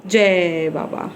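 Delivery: drawn-out, very slow जय बाबा; slow demo for baby. Shown as a demonstration. Mother slowly showing Tashi how to say जय बाबा. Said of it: "हाथ जोड़ के करो".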